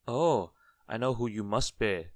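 lively goblin recognising someone; knowing goblin. A narrator's reading. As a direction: crow it as a knowing little goblin. Goblin guesses who he is.

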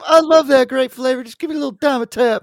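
very high put-on child voice; begging kid. Kid pestering Mom for cold medicine, high begging voice. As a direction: squeak it out like a kid pleading. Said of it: "I used to actually pretend I had a sore throat".

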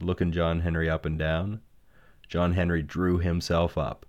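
ordinary delivery

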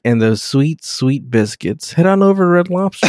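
hammed-up restaurant commercial announcer; mock ad read. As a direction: sell it like a TV ad for Red Lobster. Mock Red Lobster ad read.

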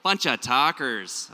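slow, drawn-out Minnesota vowels; exaggerated Minnesota accent. Shown as a demonstration. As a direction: lean hard into the Minnesota accent. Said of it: "My Minnesota accent really starts coming out".

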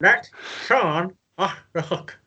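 talking around a mouthguard; words mushed by a mouthguard; wearing a mouthguard. Real, not acted. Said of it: "whoever's reading their saying needs to put the mouth guard in".

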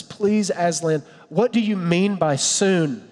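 put-on slow, mild tearful plea from a little girl; tearful Lucy. Pastor voicing Lucy to Aslan, mildly tearful. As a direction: gently plead as a tearful girl. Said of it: "with tears in her eyes".

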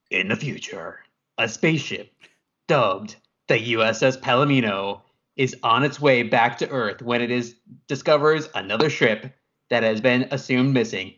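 movie trailer narrator; dramatic voice. A narrator's reading. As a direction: tell it like an epic film intro. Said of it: "my dramatic voice".

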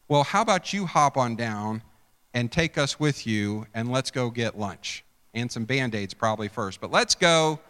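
arrogant sarcasm. Acted. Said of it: "You hear arrogance".

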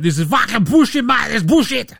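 mock angry rant. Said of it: "He was like".

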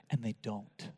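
breathy whispered aside. Acted. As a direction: drop to a whisper. Hushed aside in soft passage.

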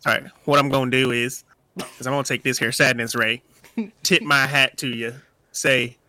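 put-on cowboy with a southern accent. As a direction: play a southern cowboy stating his attack. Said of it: "where's that southern accent".

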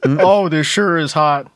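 put-on southern accent. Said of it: "suddenly has a southern accent".

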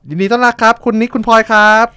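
high, loud, beaming host welcome; bright podcast host greeting; excited welcome. Real, not acted. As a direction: throw it open to the guests with a big lift. Host welcomes guests on air.

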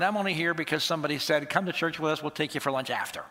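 low-pitched, dismissive interruption; unimpressed sceptic. Acted. Reluctant churchgoer to preacher Scott, low and unimpressed.

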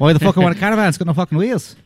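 put-on accent from Snatch; movie-quote accent. Friend quotes Snatch on the podcast, putting on the movie accent. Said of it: "You're good at accents".

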